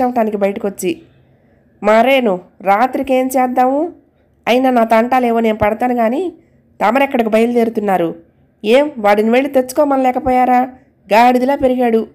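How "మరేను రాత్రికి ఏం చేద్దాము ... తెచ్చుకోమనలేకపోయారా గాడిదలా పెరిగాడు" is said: mildly angry, a little raised; irritated complaint to her husband, held back; a touch of wife's exasperated scolding. Acted. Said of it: "కోపంగా అంది".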